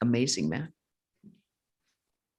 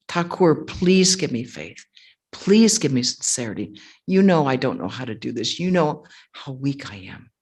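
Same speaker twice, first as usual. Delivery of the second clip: imploring, leaning hard on each plea; full-hearted prayer; 3 semitones lower, 5 dB louder than usual. Retold or imitated. Swami teaching a disciple to pray at the shrine, earnest pleading. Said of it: "with his full heart, was praying to Thakur like that".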